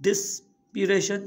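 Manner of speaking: ڊسپيريشن slowly, pausing after the first syllable; broken into parts. Shown as a demonstration. Teacher repeating a long word for learners, slowly in parts. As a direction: split ڊسپيريشن after "dis". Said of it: "ته ان لاءِ توهان هن جا syllable ٺاهيو".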